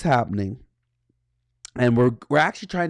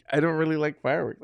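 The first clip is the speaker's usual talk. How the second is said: laughing; 4 semitones higher, faster than usual. Real, not acted. Teller repeats his grudge to the host, laughing. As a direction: laugh it off as you say it again.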